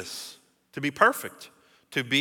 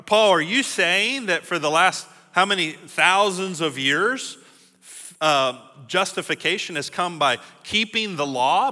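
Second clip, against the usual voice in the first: louder, higher challenging voice; skeptical objector; 3 semitones higher, 3 dB louder than usual. Acted. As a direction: press Paul like a doubting listener.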